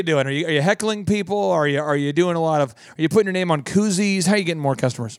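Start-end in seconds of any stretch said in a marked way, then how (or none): none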